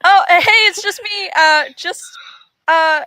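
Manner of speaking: caught-out performer playing innocent; sheepish bard. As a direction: stammer out a harmless excuse. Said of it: "he's gonna be like".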